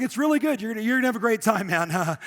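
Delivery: rushed retold enthusiasm; hyped-up concierge. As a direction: imitate an overeager concierge selling it. Acts out concierge hyping the rafting.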